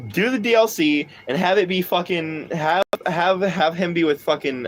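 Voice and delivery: ordinary talk, nothing marked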